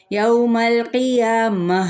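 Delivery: یوم القیامہ chanted slowly, with the م of یوم not stretched; short meem. Shown as a demonstration. Teacher showing students an unstretched meem, slow recitation. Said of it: "میم کی زبر کو کھینچنا نہیں ہے".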